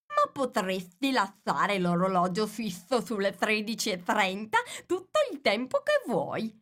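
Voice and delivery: musing Hatter with a sly suggestion; lightly voiced Hatter.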